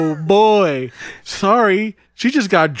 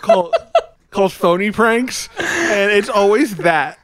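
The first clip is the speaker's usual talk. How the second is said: laughing; 6 semitones higher than usual. Real, not acted. Laughing at the failed prank.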